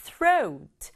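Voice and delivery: throat said as one quick beat, airy th. Shown as a demonstration. Teacher models throat in one beat for students. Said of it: "한 박자예요".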